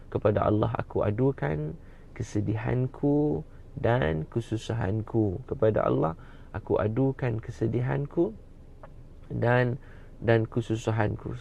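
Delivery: slow, chant-like reading; intoned translation. Acted. Preacher intones the translation for the congregation, slowly. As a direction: carry the chant's melody into the Malay meaning.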